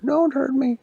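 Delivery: high, loud frightened whimper; scared pirate begging not to be hurt; whimpering plea. Acted. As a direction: cower and beg. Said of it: "whimpered in the corner".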